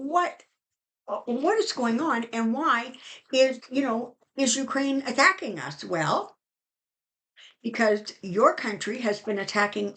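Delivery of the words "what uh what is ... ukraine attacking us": lightly voiced alarmed Russian citizen, pitch jumping up; a hint of shocked confusion; mock bewildered question. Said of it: "Russian people going".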